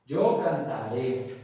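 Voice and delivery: slow "cantaré", accent on the last é; stress on final E. Shown as a demonstration. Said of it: "Acento en la E". ("cantaré" pausado, con acento en la é final)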